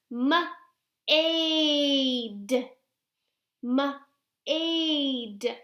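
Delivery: "m-aid" split into "muh", pause, long stretched "ayd"; sounding out. Shown as a demonstration. Teacher reads pretend word with children, stretched out. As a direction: blend "m-aid" slowly in two parts. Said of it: "read them together".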